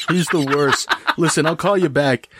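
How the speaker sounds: mock-confide to a friend on the phone; sword on the phone. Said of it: "It's on its little cell phone".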